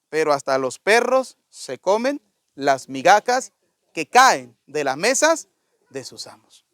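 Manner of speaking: slow, lightly acted humility, sinking low and hushed; understated humble plea, phrase by phrase, falling away; humble reply. Humbled woman answers Jesus at his feet, slow and meek. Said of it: "llena de humildad".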